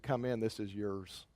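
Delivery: soft, low and slow; hushed surrender. Acted. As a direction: give up the city quietly. King yields, opens gates.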